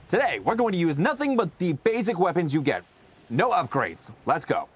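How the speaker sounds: peppy let's-play host intro; YouTuber intro voice. Retold or imitated. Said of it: "that kind of vibe".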